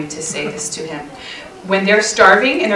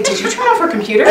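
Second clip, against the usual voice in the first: mock shout; 9 semitones higher, faster than usual. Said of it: "go up to him and say".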